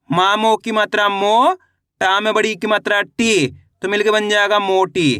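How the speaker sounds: teacher models "मो" up, "टी" down, "मोटी" together; letter-by-letter reading. Shown as a demonstration. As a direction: sound out each syllable in a level drill, then join them. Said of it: "एक अक्षर का उच्चारण करके इनको पढ़ रहा हूँ".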